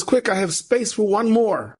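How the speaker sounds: high, drawn-out mock call; retold urgent yell. Coach driver offering the last seat, retold urgent yell. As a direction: imitate a driver calling for one last passenger. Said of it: "the guy yells out".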